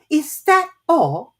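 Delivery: a touch of held-back indignation; suppressed anger. A narrator's reading. Alice holding back her anger at the caterpillar. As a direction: swallow the anger as she says it. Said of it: "swallowing down her anger".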